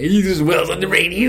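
radio voice. Pretend. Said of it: "That's not a radio voice".

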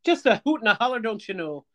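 high-pitched mock Midwestern folksiness; elderly Midwestern. Co-host playing along with the joke, mock elderly Midwestern. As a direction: join in as an old Midwesterner. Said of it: "like an elderly Midwestern person".

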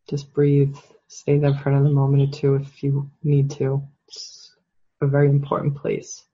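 calm, measured, pausing between phrases; guided meditation. Real, not acted. Coach closing the self-empathy exercise, calm meditation voice. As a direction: ease them gently out of the exercise.

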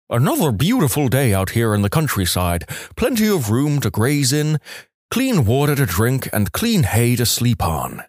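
lightly voiced talking horse; a hint of a horse character voice; ventriloquist's horse. Ventriloquist answers as the old horse, lightly put-on voice. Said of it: "the horse appears to reply".

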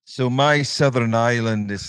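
attempted Irish lilt copy; a try at Southern Irish; copied Southern Irish accent. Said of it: "I'll try and copy it".

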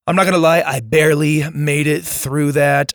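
losing voice, hoarse and strained. Real, not acted. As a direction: push through a hoarse, worn-out voice. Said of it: "I've been losing my voice this week".

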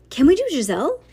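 high, loud, hopeful question; keen pupil piping up; eager question. A narrator's reading. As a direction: ask eagerly, swooping up on Giselle. Eager pupil asks teacher.

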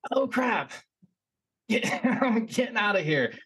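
high, panicked, breaking into a laugh; panicked yelp. Retold or imitated. Seeing the hissing creature rise behind the rock, high panicked laugh. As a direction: squeal it out, half scared and half laughing. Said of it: "I'm like".

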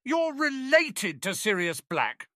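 slow, high-pitched stricken disbelief. A narrator's reading. Ron learns of Tonks's relative, stricken. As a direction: draw it out high, aghast.

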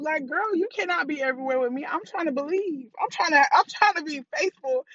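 hammed-up exasperation at her inner voice; exasperated with herself. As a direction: plead with the voice to back off. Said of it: "I crack myself up".

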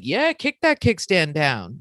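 lightly voiced leering catcaller, words drawn out; slow, mocking take on men catcalling. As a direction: imitate a street catcaller, slowly. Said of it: "three men who are like".

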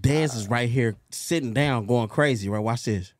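deep growling demon voice. Acted. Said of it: "Not the demon voice".

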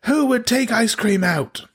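can't believe they took it out; incredulous whine. Retold or imitated. Co-op guy finds his melted baked Alaska, high incredulous whine. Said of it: "He's like".

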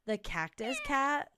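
slow, slurred tipsy cat voice; drunk cat impression. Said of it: "That's my drunk cat impression".

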